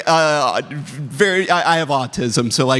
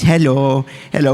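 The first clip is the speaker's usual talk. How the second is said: put-on baby talk to pets. Shown as a demonstration. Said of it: "we talk to them like this".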